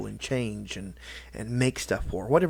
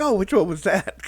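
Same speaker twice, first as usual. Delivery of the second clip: retold puzzled question, high and loud; loud, high-pitched mock confusion; Jack Septiceye; 9 semitones higher, 7 dB louder than usual. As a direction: imitate a friend baffled by a bad accent. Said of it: "He's like".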